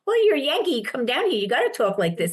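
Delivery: lightly imitated Southern drawl. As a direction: tease back with a touch of Southern drawl. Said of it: "she had a Southern drawl".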